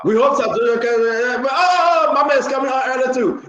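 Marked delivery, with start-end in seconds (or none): 1.5-3.5 surprised. Real, not acted. Host spots caller coming in.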